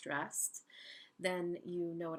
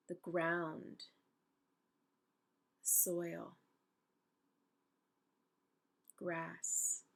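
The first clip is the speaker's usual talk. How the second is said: unhurried meditation guide with long pauses; calm, spacious guided-imagery voice. Real, not acted. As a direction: guide them gently into stillness, leaving space between phrases.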